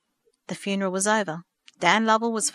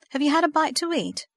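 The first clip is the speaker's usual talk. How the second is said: higher, mildly kind question; kindly inquiry; 7 semitones higher than usual. A narrator's reading. Minister's wife offering food to a bereaved girl, kindly. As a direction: ask kindly, lifting the voice. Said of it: "his wife inquired kindly".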